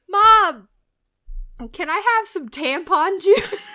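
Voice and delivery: high, childlike mock daughter voice; lightly voiced young girl asking; imitating little daughter. Mother mimics her daughter asking for juice, high childlike.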